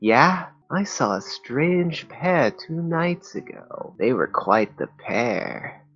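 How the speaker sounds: high-pitched fisherman. Acted. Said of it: "a consistent voice for him".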